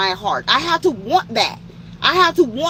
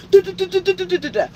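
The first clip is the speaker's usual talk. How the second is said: babble noise; 11 semitones higher than usual. Retold or imitated. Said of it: "he's just talking".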